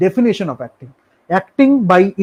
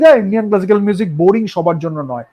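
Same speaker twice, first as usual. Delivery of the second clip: quick, mildly scornful brush-off; dismissive; 3 semitones higher, faster than usual. Retold or imitated. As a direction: imitate someone waving it away in a hurry. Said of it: "তাচ্ছিল্য করে discard করে দিলাম". (তাচ্ছিল্যের ভান করে দ্রুত বলা)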